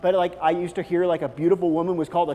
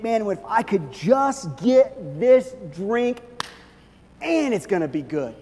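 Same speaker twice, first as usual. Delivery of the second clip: a mock-eager wish, higher and louder; 4 semitones higher, 4 dB louder, slower than usual. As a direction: daydream about the perfect drink. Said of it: "things that we think".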